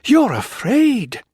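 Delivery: high, loud, slow accusation; accusing. A narrator's reading. Wife accusing the colonel, high loud slow. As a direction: throw it at him. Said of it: "she gasped".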